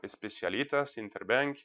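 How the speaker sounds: best attempt at a Spanish accent; lightly put-on Spanish pronunciation of the names. Shown as a demonstration. Presenter naming a Peruvian bank's team to the audience, Spanish accent. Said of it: "my best Spanish accent".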